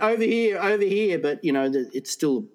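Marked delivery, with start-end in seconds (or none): 0.0-1.2 mild mock shout, slightly raised; retold yell. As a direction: act out calling to someone far off, half-voiced. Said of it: "So I yell out".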